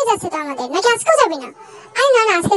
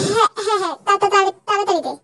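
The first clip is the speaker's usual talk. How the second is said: shaky nervous voice. Acted. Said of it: "তোর voice এরকম কাঁপা কাঁপা লাগছে কেন".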